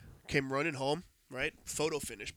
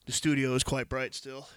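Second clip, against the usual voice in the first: stuffy nose, nasal tone; 4 dB louder than usual. Real, not acted. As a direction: talk through a blocked nose. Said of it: "sorry if I sound a little nasally because my nose is stuffed".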